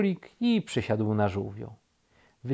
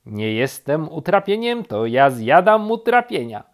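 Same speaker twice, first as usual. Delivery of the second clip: higher, loud, bouncy bird voice; perky woodpecker; 4 semitones higher, 8 dB louder than usual. A narrator's reading. Woodpecker answers rabbit's insult, perky and loud. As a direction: proudly set them straight.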